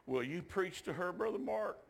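a touch of tearful pleading; retold tearful plea. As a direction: mildly imitate a tearful grandmother begging. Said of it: "she grabbed me crying. She goes".

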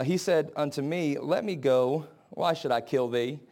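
low, soft reading of a verse; scripture reading. Acted. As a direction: read the verse soberly, voice dropped. Reads scripture aloud.

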